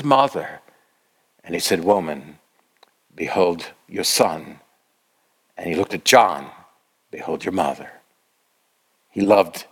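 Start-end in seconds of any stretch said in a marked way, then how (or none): 1.8-4.6 low, slow, gentle retold words; tender. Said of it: "Then that tender expression". 7.1-8.0 low, soft, gentle retold words; hushed, caring handover; tender. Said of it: "Then that tender expression".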